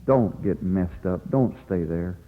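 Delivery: soft, low pleading of a father; hushed, understated fatherly begging; heartfelt plea. Acted. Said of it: "crying out with his heart saying".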